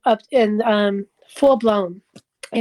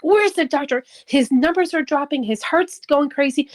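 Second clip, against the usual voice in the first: retold crying panic; 4 semitones higher than usual. Wife running down hospital hall for the doctor, mock panicked cry. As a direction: re-enact calling out frantically for help. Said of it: "I'm crying. I ran down the hall".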